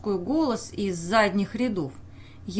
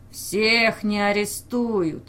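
cheeky shout; slower than usual. Acted. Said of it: "крикнул нахально передний".

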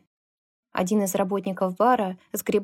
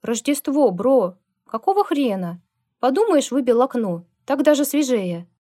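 rowdy protest; 4 semitones higher, 5 dB louder than usual. Acted. Bikers protest the closing.

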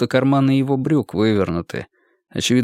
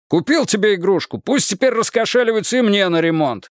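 harsh barking commands; 8 semitones higher than usual. Acted. Ex-sergeant keeps yelling at girl.

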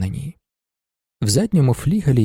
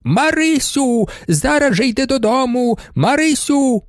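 much higher, scolding yell; a mother yells from the window for her girl; woman shouting; 10 semitones higher than usual. A narrator's reading. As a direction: drag out the name, calling her home. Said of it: "жіноча голова і закричала".

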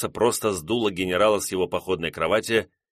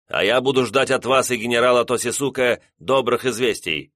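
firm raised orders, higher; commanding general; 4 semitones higher than usual. Acted. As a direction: command with cold resolve. General gives firm orders to staff.

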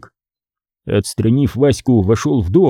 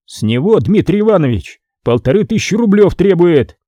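raised, stern explaining; lecturing scribe; 5 semitones higher than usual. Acted. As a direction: put him in his place.

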